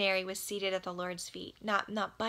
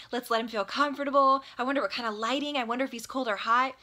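fast, flustered rush of worries; freaking out; much faster than usual. Pretend. Martha frets about the house before Jesus arrives, fast and flustered. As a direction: Martha panicking over her tidy house, rattling off worries fast. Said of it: "she's probably freaking out".

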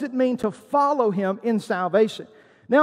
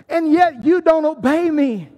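raised-voice rebuke; 4 semitones higher, 4 dB louder than usual. Acted. Continues the challenge as Jesus.

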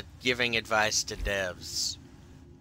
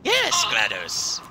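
high drawn-out cheer; 10 semitones higher, slower than usual. Pretend. Cheering GLaDOS.

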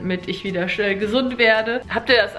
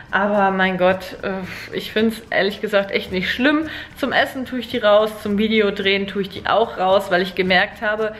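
slight lisp from a retainer; wearing a retainer. Real, not acted. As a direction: talk around a retainer in the mouth. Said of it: "Auch jetzt gerade ... mit der Spange drin".

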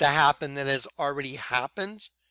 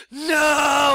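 loud high scream; 10 semitones higher, 7 dB louder than usual. Retold or imitated. Sleepwalker screaming at the attacker, loud and high. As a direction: scream it to stop him. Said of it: "my own voice was bouncing off that mirror".

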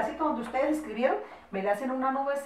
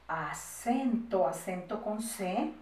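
slow, syllables stretched out; measured, drawn-out dictation; 3 semitones lower, 5 dB quieter, much slower than usual. Shown as a demonstration. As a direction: dictate for pupils writing it down. Teacher dictating with spellings.

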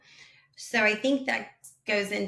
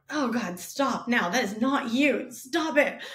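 cringing plea; 2 semitones higher than usual. Retold or imitated. Cringing viewer reaction.

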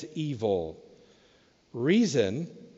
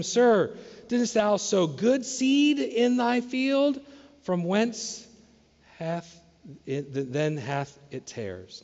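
higher, slow, archaic servants' plea; servants asking the master; 5 semitones higher, slower than usual. Retold or imitated. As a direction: ask humbly as puzzled servants. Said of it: "servants of the household come and said unto him".

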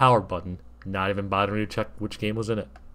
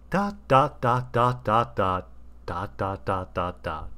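thoughtful; slower than usual. Acted. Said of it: "he added thoughtfully".

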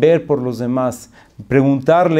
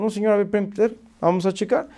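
higher, hesitant soothing voice; calm the complainer gently; placating; 7 semitones higher, 4 dB quieter, faster than usual. Retold or imitated. Office clerk asking customer to wait, placating.

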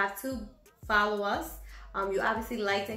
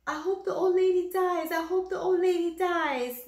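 high, louder parrot chant; squawking parrot; 8 semitones higher, 4 dB louder than usual. Acted. The parrot taunting the old lady, high squawk. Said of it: "he would be like".

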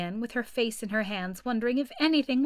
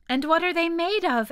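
eager, high, louder question; great curiosity; 8 semitones higher, 5 dB louder than usual. A narrator's reading. Alice asking the Gryphon eagerly, full of curiosity. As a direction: lean in, dying to know. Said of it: "in a tone of great curiosity".

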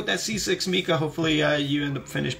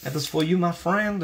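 put-on French accent, lilting up at phrase ends; 3 semitones higher than usual. Streamer dedicates a signed print to a friend, French accent. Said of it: "The reason I did a French accent".

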